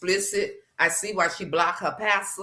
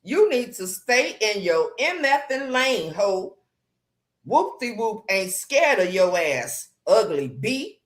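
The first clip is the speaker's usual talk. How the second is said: quoting a rant; 3 semitones higher than usual. Retold or imitated. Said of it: "But she said".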